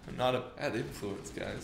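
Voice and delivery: talking through hiccups; words broken by hiccups. Real, not acted. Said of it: "I've got the hiccups suddenly".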